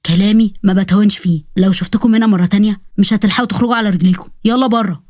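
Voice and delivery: low-voiced tough man's warning; lightly voiced menacing protector; Osman threatening. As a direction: lay down a final threat, controlled.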